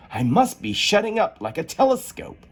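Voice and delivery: put-on high, wondering girl's voice; young Alice. Alice shrinking, high and wondering. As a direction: marvel at the strange feeling.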